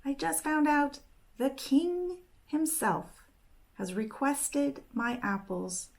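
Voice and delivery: excited. Acted. Catherine tells Ingrid the king wants her apples, excited. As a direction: rush the good news out proudly. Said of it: "And she was all excited".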